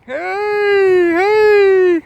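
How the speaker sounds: high-pitched drawn-out "hey" calls; imitated yelling. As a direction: imitate someone hollering from afar, high and loud. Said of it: "I could hear somebody yelling".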